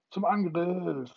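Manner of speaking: high, loud, slow rallying shout; battle cry. Acted. The boys charging out to fight, battle cry. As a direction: charge them forward.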